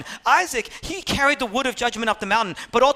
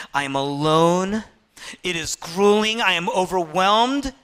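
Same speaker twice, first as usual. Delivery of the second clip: rising anguish; 3 semitones lower than usual. Retold or imitated. Anguish builds out of despair.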